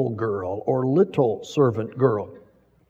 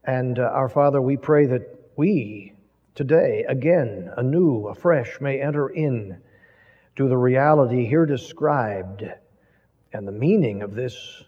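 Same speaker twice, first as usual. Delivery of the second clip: closing prayer; 2 semitones lower than usual. Acted. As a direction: pray reverently to the Father.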